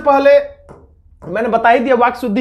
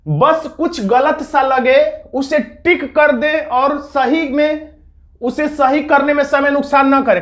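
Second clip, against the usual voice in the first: slow careful reading; 2 semitones higher, slower than usual. Shown as a demonstration. Teacher showing students how to read each word, slow and deliberate. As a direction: read the rule out slowly, word by word. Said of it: "जैसे ये लिखा है तो ऐसे पढ़ना".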